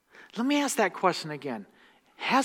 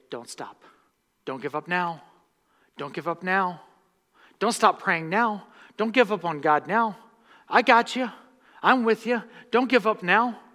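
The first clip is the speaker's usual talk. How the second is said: encouraging friend; 3 semitones higher, 5 dB louder than usual. Retold or imitated. Servant urging a discouraged friend, building to a loud plea. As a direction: cheer them on, growing stronger each line. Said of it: "and say".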